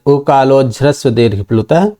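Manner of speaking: उकालोज्झ्रस्व run together as one word; joined by sandhi. Shown as a demonstration. Teacher reciting the whole sutra for students, उकालोज्झ्रस्व fully joined. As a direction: link उकालः and अच into उकालोज्झ्रस्व without a break. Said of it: "पूर्व रूप संधि होकर के".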